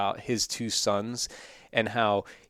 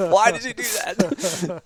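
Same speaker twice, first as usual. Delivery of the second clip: higher and slower, half laughing in disbelief; playfully imitating a baffled dad; mock exasperated parent; 9 semitones higher, 4 dB louder, slower than usual. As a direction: scold the kid with a laugh in your throat. Imitating scolding his kid.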